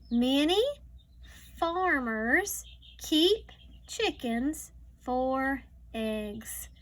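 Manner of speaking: slow, careful read-aloud; reading to a child. Acted. Teacher reading a farm book to a child, slow read-aloud. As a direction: read each word slowly for a young learner.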